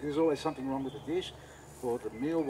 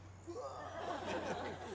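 high, softer mock freak-out sound; imitated freak-out noise; 13 semitones higher, 7 dB quieter than usual. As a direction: mimic someone freaking out behind the camera. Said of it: "freaking out".

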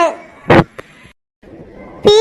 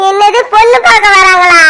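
shocked shout. Acted. Daughter hearing groom's family is coming, shocked shout. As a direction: blurt it out in disbelief.

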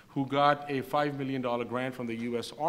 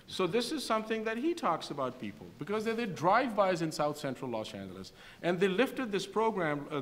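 put-on Desi accent; 4 semitones higher than usual. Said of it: "now I'm gonna say in my Desi accent".

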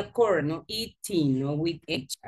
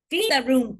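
firm command; 3 semitones higher, 4 dB louder than usual. Shown as a demonstration. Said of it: "Give a command".

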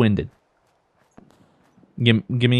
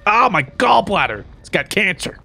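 acted victim's cry; 5 semitones higher than usual. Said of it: "They're like".

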